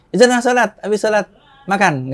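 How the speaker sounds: high, loud quoted instruction; acted mother's reply. Mother answering son before prayer, high loud imitation.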